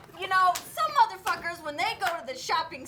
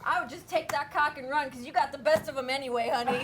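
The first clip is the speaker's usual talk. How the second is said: operator. Retold or imitated. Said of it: "She said".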